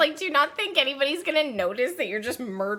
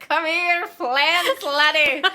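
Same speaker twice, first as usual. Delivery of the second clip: higher, playful Scottish accent; attempted Scottish accent; 5 semitones higher, 4 dB louder, much slower than usual. Shown as a demonstration. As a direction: call someone over in a put-on Scottish accent. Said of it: "How would you say that with a Scottish accent".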